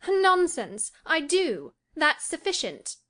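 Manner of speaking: put-on high, indignant girlish retort; impatient dismissal. A narrator's reading. Cathy dismisses Nelly's catechism, impatient and high.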